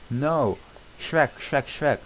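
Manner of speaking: high, loud desperate shouts; shouting for help. Acted. Donkey tries to call Shrek before Fiona hushes him, loud shouts. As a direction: yell his name at the top of the voice.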